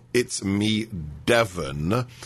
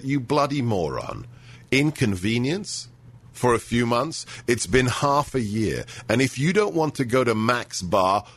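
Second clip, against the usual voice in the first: indignant rant. Retold or imitated. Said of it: "I let myself go a little bit there".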